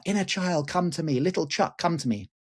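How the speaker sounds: high sing-song call into the dark; a half-sung retold summons. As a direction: summon him like calling a child home. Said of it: "I called out".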